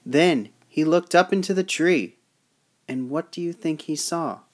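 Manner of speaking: measured storybook narration; story read-aloud. Acted. Reading the peddler's tale to children, storytelling voice.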